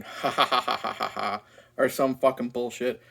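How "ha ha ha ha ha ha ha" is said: lazy imitated evil laugh that fades; dry fake 'ha ha ha' trailing off; mock villain laugh. Reviewer mocking Trump's shadow laughing, half-hearted evil laugh. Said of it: "the shadow of Trump just going".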